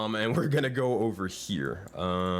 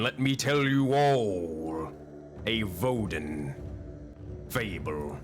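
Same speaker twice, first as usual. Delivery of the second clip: slow, ominous storyteller invitation; horror host; slower than usual. Acted. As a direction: draw them in like a horror host. GM calls players to the table.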